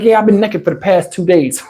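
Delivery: imitating her casual, matter-of-fact tone; offhand, everyday delivery; nonchalant. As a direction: say it like it's nothing. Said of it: "talking like it's nothing".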